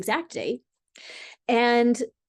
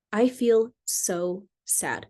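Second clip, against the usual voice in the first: slowly drawn out, gently sad; slow sad repeat; much slower than usual. Shown as a demonstration. Wife repeating her sadness to husband, slow. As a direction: let each word sink in, hurting. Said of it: "you feel your feelings and you just say".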